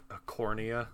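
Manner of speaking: "A cornea" for ocarina, stress on KOR; ocarina mispronounced. Shown as a demonstration. Guest confesses his old mispronunciation, "A cornea" as uh-KOR-nee-uh. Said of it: "what did you used to say".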